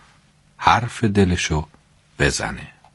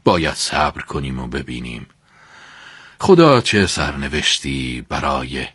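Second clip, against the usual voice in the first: deep faith; 6 semitones lower than usual. Acted.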